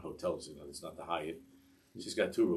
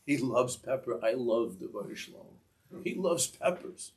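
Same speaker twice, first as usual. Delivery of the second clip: mock cry climbing much higher by the end; retold ecstatic scream; 5 semitones higher than usual. Zushi dancing on the table over the peppers, retold ecstatic scream. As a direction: imitate an ecstatic shout, stretching the last phrase up high. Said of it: "starts to dance and scream".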